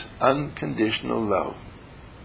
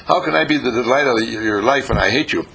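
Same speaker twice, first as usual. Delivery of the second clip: grumpy lady. Retold or imitated. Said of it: "And she said".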